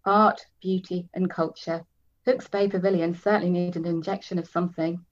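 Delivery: steady reading of a novel; story narration. A narrator's reading. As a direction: read it like an audiobook. Reads novel aloud.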